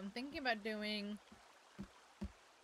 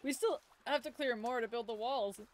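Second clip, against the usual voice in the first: talking through hiccups; hiccuping mid-sentence; 5 semitones higher than usual. Real, not acted. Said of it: "I have the hiccups now".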